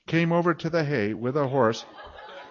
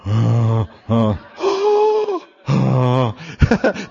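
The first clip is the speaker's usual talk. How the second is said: awed moaning; much slower than usual. Retold or imitated. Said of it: "And then I'm moaning".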